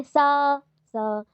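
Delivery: "सा" sustained, then a second "सा" on another note; two drawn-out tones on "सा"; intonation change demo. Shown as a demonstration. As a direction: hold "सा" like a scale note, then shift it. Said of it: "rise and fall of voice".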